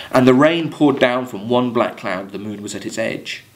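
measured verse reading to the class; poem reading. Acted. Teacher reading Coleridge verse to students, measured poem reading. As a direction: read it like a poem, letting lines ring.

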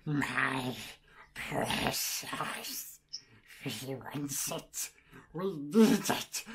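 slow, low rasping creature voice, hissing precious; a pleading little goblin, slow and low; Gollum impression. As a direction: creep out the caller as a sneaky cave creature. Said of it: "I was doing an impression of Gollum".

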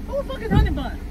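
high outraged question; outraged demand. Acted. She confronts her friend about Honey Bun, outraged.

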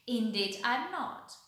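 loud wolf retort, lightly growled; growling wolf. A narrator's reading. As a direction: answer loudly as a menacing wolf. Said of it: "growled the wolf".

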